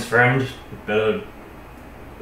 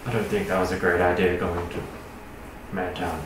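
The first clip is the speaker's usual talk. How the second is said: wolf voice; 4 semitones lower, 6 dB quieter than usual. Acted. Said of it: "Sorry. Wolf voice".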